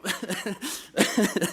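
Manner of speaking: short nervous laugh breaking out; embarrassed laugh. Real, not acted. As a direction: laugh at yourself, a bit flustered. Laughs at own stumble.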